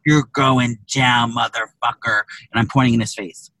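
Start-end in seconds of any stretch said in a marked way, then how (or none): 0.0-2.2 drawn-out, slow threat; slow menacing threat. Retold or imitated. Threatening the line man to his face, slow and menacing. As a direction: spell each word out as a warning. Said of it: "I said".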